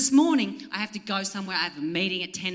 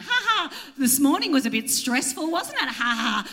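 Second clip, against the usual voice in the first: passive aggressive laugh; 2 semitones higher than usual. Retold or imitated. Passive aggressive joke with concierge.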